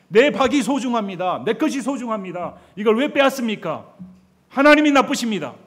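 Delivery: building from loud to a furious high shout; escalating indignant rant. Retold or imitated. Preacher voicing a believer ranting at God, rising to a shout. Believer's angry complaint voiced.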